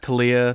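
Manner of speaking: Talia as tuh-LEE-uh, hard T; variant pronunciation. Shown as a demonstration. Host runs through ways to say the name, variant pronunciation. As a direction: say Talia with a reduced first vowel. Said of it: "I say Thalia".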